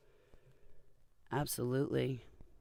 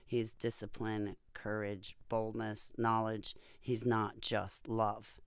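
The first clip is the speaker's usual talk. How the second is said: preaching. Real, not acted. Preaching about God.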